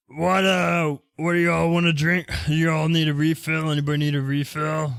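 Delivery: put-on ogre character voice. Voicing an ogre who offers the players a refill: ogre voice. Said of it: "he's an ogre, so guess what he's gonna sound like?".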